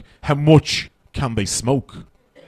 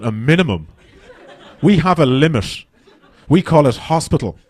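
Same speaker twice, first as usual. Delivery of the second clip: laughing punchline. Retold or imitated.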